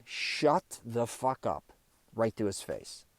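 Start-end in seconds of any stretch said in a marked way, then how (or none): 0.1-1.7 slow, deliberate retold yell; each word drawn out, only mildly raised. Telling off a dinner guest who kept interrupting, retold yell. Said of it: "I yelled".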